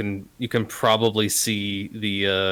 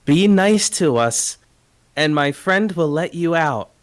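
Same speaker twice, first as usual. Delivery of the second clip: raised, higher voice, drawn out at first; pitched-up, projected in-character plea; character addressing the stomach; 7 semitones higher, 6 dB louder than usual. Acted. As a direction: call loudly and high to someone shut inside. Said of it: "lean in and talk to the stomach and say".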